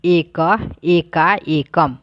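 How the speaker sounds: एक, एका, एकम said one by one with clear pauses; teacher modelling Sanskrit forms for students to repeat; pronunciation drill. Shown as a demonstration. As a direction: drill each form on its own. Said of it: "उच्चारण करें।".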